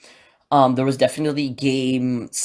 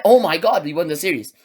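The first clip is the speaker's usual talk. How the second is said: high, louder burst of joy; excited, half-raised cheer; retold joyful yell; 5 semitones higher, 4 dB louder than usual. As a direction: relive yelling at the win. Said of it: "I'm really, really loud".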